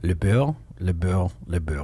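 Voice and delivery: le beurre said the French way, fading each time. Shown as a demonstration. Teasing the host about French cooking secrets, French le beurre. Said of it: "Does that mean butter?".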